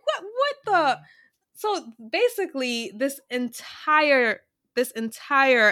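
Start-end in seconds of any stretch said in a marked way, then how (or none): 0.0-1.0 laughing disbelief. Real, not acted.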